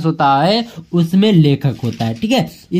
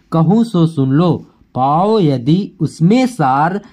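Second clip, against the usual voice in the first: poem recitation; 2 semitones lower than usual. Acted. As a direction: recite each line with weight. Teacher recites the Kaikeyi poem.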